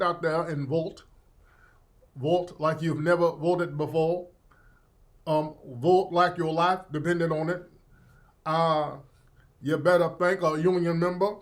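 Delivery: lightly voiced halting Southern orator; mock campaign speech with slurred Southern vowels; Jesse Jackson. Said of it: "talking just like Jesse Jackson".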